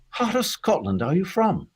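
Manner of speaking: high-pitched mock director; director's voice. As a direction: imitate a director asking, pitched well up. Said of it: "the director, which Matthew Robinson, his name was, he goes".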